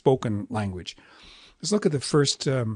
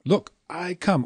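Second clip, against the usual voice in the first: "Look, I come" with a long, raised "I"; "Look, I come" in three slow, weighty beats; all long; 6 semitones higher, slower than usual. Shown as a demonstration. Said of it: "you could go".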